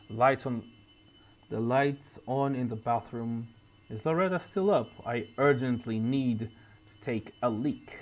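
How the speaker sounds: a hint of a drunk, gruff man muttering to himself; lightly voiced Walter. Player voicing Walter's late-night thoughts, lightly gruff.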